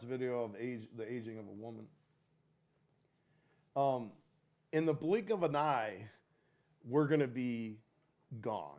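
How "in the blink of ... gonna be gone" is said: solemn quote. Shown as a demonstration. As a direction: deliver it like a grave truth. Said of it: "That's such a stale quote".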